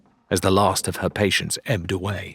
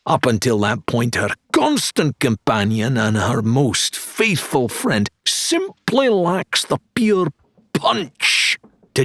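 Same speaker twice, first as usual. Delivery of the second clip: high, grandiose salesman patter; showman dealer; 5 semitones higher than usual. Acted. Dealer Wilbur pitching a blunderbuss, grandiose showman voice. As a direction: sell it like a carnival barker.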